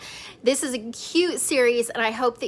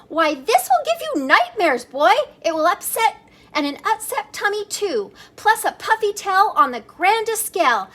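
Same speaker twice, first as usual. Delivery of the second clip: high, worried mother scolding her kitten; fussing mama; 7 semitones higher, 4 dB louder than usual. Acted. Mama cat warning her son about scary stories, high and fussing. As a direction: fret over him like an anxious mama, pitched up.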